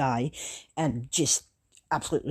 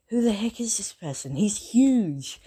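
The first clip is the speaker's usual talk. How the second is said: higher-pitched mild amazement; astonished; 5 semitones higher than usual. Acted. Classmates seeing the huge newcomer, astonished. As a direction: react with a touch of disbelief.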